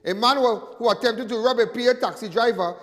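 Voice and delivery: crime bulletin read out, headline punched; news read. Acted. Host reading a robbery report to viewers, news read. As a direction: read out the police report like a newsreader.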